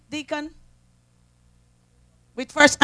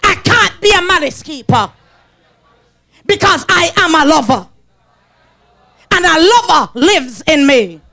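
congregation vow; 4 dB louder than usual. Acted. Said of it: "Raise your power hand and said".

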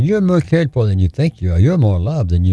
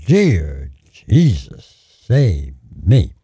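drawn-out imitation of a plea; retold desperate cry; 2 semitones lower, much slower than usual. Woman dragged by a bear crying out to Jesus, pleading slowly. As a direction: stretch each word into a slow cry. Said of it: "And she cried out".

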